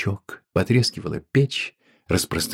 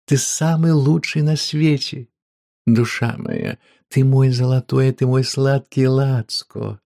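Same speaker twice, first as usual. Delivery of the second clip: gushing; 5 semitones higher, 3 dB louder than usual. Acted. Woman gushing over him.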